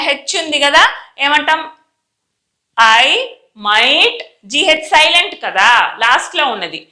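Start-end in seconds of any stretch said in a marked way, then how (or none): 3.0-4.2 careful reading with a pause between words; spaced-out practice words. Shown as a demonstration. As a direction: read slowly for learners, rising on the last word. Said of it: "నేను చదువుతాను".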